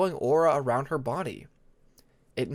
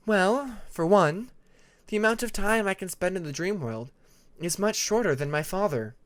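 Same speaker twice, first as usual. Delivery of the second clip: Tempest admitting; 6 semitones higher than usual. Acted. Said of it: "Tempest admitted".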